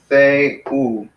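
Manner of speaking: "theou" split into two clear syllables. Shown as a demonstration. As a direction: sound out "theou" as the-ou. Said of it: "so two syllables".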